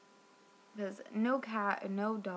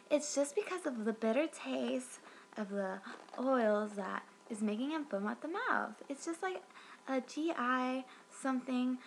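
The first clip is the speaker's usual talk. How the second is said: lightly imitated phone rep, a little higher; a hint of dismissive hotline agent; Cindy; 4 semitones higher than usual. Customer mimics the rep explaining away the foaming, lightly mocking voice. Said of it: "So she's like".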